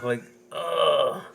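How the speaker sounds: queasy ugh; mock sick groan. Describing a jersey logo of a guy holding his stomach, a groan. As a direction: groan like your stomach hurts. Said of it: "holding his stomach".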